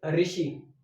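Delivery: "ऋषि" said as "रिषि", like रे plus ई; pronunciation demo. Shown as a demonstration. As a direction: sound out "ऋषि" as a plain everyday रि. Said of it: "आप उच्चारण करके देख लीजिए".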